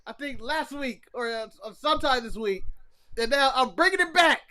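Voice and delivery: mock English accent, playfully indignant; badly faked English accent; put-on English accent. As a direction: bring back a fake English accent. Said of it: "you challenged my English accent".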